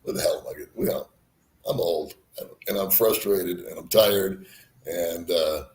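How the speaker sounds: normal talking voice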